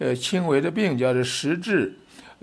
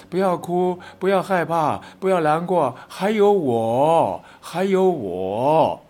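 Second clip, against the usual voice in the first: reassuring promise; 3 semitones higher, slower than usual. Shown as a demonstration. Preacher showing the congregation how to comfort a friend, slow and reassuring. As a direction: spell out the comfort, leaning on each 还有我. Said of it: "你要告诉他".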